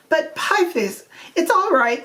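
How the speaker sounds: reassuring. A narrator's reading. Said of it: "the vicar assured him".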